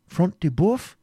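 high, rising query; exclaimed question. A narrator's reading. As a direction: ask eagerly who has fallen. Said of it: "exclaimed Ivanhoe".

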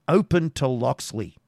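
loud, high call from outside. Acted. Voice calling from outside door.

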